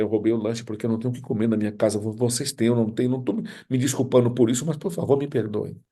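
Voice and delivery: mild plea, pitch climbing toward the end; acting out a boy begging forgiveness; pleading. Boy confesses to the class about stolen lunch, mildly pleading. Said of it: "ele suplicou pra que todos pudessem perdoá-lo".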